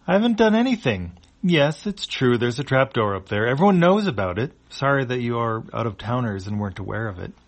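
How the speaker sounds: high, loud innocent alien; defensive alien voice. Acted.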